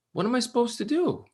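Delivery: distraught devotee asking his friend for help; desperate plea. Retold or imitated. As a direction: cry out in desperation. Ghanshyam desperate to Mirage.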